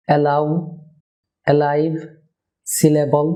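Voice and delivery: "অ্যালাউ, অ্যালাইভ, সিলেবল" with a thin L opening the inner syllable; clear, light mid-word L. Shown as a demonstration. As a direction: keep the middle L on the tongue tip. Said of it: "light এল হবে".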